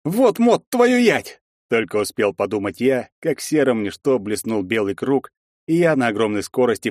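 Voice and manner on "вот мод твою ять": cursing shout. Acted. Hero curses on rebirth.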